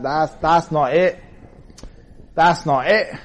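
mock dismissive verdict, punched loud; imagined listener's rejection. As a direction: play an unimpressed critic of the singing. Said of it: "you might hear my voice and say".

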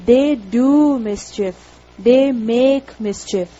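slow, with "do" and "make" drawn out; deliberate teaching emphasis on "do", then "make"; stress on present verbs. Shown as a demonstration. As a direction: lean hard on "do" and "make".

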